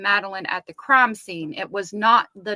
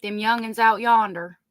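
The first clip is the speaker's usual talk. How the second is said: Southern twang. Pretend. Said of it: "That Southern twang".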